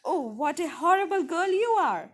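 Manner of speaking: a fast, lightly voiced angry scolding; old woman scolding the rude girl, mildly angry. A narrator's reading. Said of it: "The old woman became angry and said".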